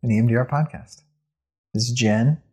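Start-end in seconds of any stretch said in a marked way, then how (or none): 1.7-2.4 "Jen" lifted at the end, then a pause; pause after JEN. Real, not acted. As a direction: leave "Jen" hanging as if introducing yourself. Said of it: "You just paused after".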